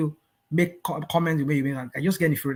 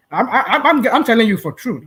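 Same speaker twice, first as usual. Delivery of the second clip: laughing; 7 semitones higher, 6 dB louder than usual. Real, not acted. Laughing while insisting to host.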